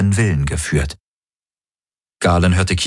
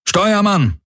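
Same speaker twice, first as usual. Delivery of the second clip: calling out; 14 semitones higher than usual. Acted. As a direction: summon across the bridge. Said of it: "rief der Feldherr". (lauter Ruf)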